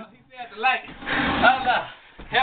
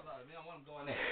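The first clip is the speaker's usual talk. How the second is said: whispered prayer; 8 semitones lower, 24 dB quieter, faster than usual. Real, not acted. Muttered prayer while chasing.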